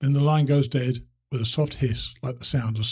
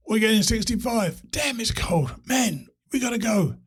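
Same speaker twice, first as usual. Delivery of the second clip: distant phone voice; 10 semitones higher than usual. Acted. Freezing caller on bad line.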